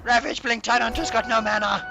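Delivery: high, hyped play-by-play call; fighting game announcer. Real, not acted. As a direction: call the fight at full hype. Live play-by-play teamfight.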